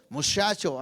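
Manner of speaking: "muchacho" said as mushacho, ch softened to sh; mock northern "muchacho"; mispronounced word. Shown as a demonstration. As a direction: give "muchacho" a sh sound. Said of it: "pronunciar correctamente".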